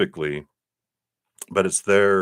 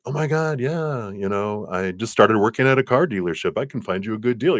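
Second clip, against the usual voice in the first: excited friend; 4 semitones higher than usual. Retold or imitated. Acted excited car dealer friend.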